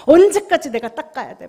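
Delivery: mock irritated scolding. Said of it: "뭐 흘리면 그렇게 화가 나요".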